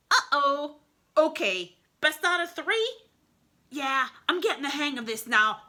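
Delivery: a hint of an embarrassed wolf; sheepish wolf. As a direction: shrug off the failure. Wolf after miss.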